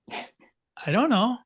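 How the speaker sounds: high, slow, stretched-out I don't know; drawn-out shrug. Retold or imitated. Boy Matthews shrugging off the question, slow and high. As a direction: let each word hang, slow and high. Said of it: "He'd go".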